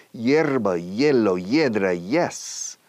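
"yes" with the gliding i of "hierba"; Y led in by Spanish. Shown as a demonstration. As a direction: launch "yes" off "Hierba, hielo, hiedra". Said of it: "recomiendo decir hierba o hielo o hiedra".

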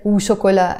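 "ou chocolat" joined as one word; really fast "ou". Shown as a demonstration. Teacher showing "and" as part of the word, joined. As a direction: run "ou" straight into "chocolat". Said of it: "I have to say it really fast".

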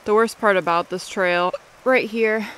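talking through the hiccups; hiccuping mid-sentence. Real, not acted. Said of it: "I have the hiccups".

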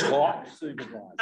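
chuckling through the words; amused, laughing repeat. Real, not acted.

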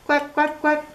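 high, bright duck quacks; Little Duck quacking. Acted. Duck greets sheep.

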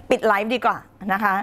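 ปิดไลฟ์ดีกว่านะคะ said through a real laugh. Real, not acted. Host jokingly threatens to end the live, laughing. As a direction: laugh while saying ปิดไลฟ์ดีกว่านะคะ.

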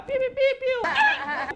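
high, loud electronic beeping; turnstile beeps. Retold or imitated. Passengers tapping their cards at the turnstile, electronic beeps. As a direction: beep like a bus turnstile.

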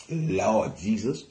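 low, soft, slow sigh of prayer; hushed exclamation. Real, not acted. Preacher calms down after getting excited, low hushed appeal. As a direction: settle down under your breath.

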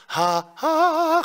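loud "하" jumping up into falsetto. Shown as a demonstration. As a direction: push it up into falsetto. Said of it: "가성으로 가는데 여기서 가성 낸다고만 생각해". (크게 가성으로 넘기는 "하")

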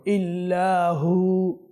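ইল্লাহু held one beat then stopped; pause with one alif. Shown as a demonstration. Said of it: "এক আলিফ করে আমরা, ওয়াকফ করে নিব।".

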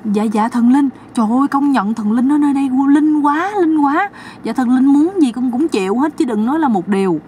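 high, eager pleading; pleading sister-in-law. Acted.

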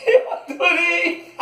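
slow, high laughing words; drawn-out giggly joy; laughing delight. Real, not acted. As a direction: squeal it out while laughing. Laughing over the dog's gift.

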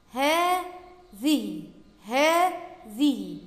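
هذه with a very long "aa" after the first h; long alif in هذه. Shown as a demonstration. Teacher showing pupils a hidden alif, هذه drawn out. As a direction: draw هذه out slowly, "haaa-dhihi". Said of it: "بعد الهاء ألف تنطق ولا تكتب".

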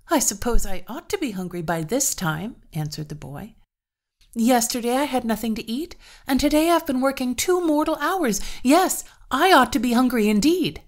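hungry and fed up, pushing back; annoyed farmhand. Acted. Hungry Peter answers the farmer.

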